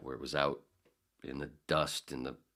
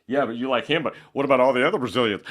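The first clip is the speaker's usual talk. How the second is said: mock heckler; 7 semitones higher, 12 dB louder, faster than usual. Mock listener challenge.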